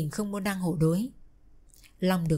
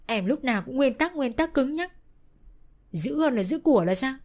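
angry; 6 semitones higher than usual. Acted. Lovers quarrel, man accusing.

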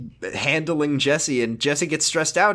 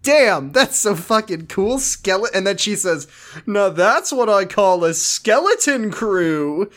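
excited; 5 semitones higher, 3 dB louder, slower than usual. Acted. Voicing an excited girl.

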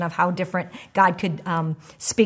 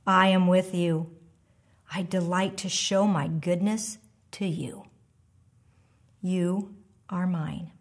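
tender voice of God. Acted. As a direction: speak as a loving God, unhurried and hushed. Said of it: "would say something similar to you like".

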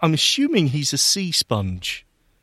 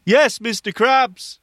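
eager reply; 7 semitones higher than usual. Real, not acted. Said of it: "If so, say".

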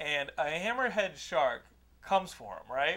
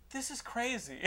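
laughing remark; 5 semitones higher, 8 dB quieter than usual. Retold or imitated. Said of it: "And Laura goes".

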